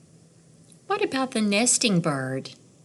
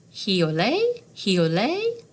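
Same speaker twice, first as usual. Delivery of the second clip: thrush song; slower than usual. A narrator's reading. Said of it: "Wood thrush turns the twilight still".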